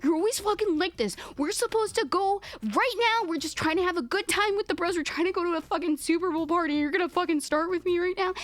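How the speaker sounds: mock angry husband. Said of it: "he's just like".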